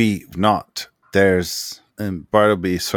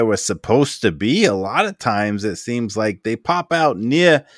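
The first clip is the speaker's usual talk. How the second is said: lightly raised, eager explaining tinkerer; Bartleby voice; 5 semitones higher than usual. Acted. GM's Bartleby explaining the portal discovery, eager. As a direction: rush through the theory with excitement. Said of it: "And Bartleby is like".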